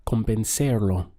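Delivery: convencerlo with Spanish B sound and rolled end; Spanish pronunciation. Shown as a demonstration. Teacher showing students how convencerlo sounds. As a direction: model convencerlo clearly. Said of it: "So the sound together we get is".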